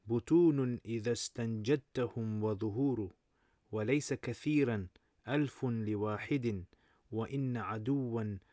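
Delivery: measured, emphatic recitation of classical verse; Arabic poem recitation. Acted. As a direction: recite it as Arabic poetry, line by line. Recites Imam Shafi's Arabic poem.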